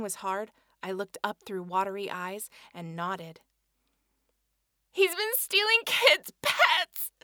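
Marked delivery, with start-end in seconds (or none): 4.9-7.1 high, funny voice. Acted. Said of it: "My voice was high and funny".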